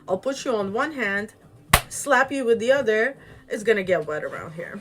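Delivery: hammed-up warning to back off; mock threat. Ivan tells the old woman to get lost, mock threatening.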